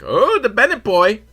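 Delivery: high, loud mock gossip; gossiping women. Women at the ATM spotting the fighter, high gossipy mock voice. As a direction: exclaim it high like a town gossip.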